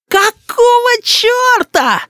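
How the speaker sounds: put-on high, slow yelling little boy; boy's furious yell. A narrator's reading. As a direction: bellow it like an outraged child. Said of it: "изо всей силы завопил рис". (вопль рассерженного мальчишки)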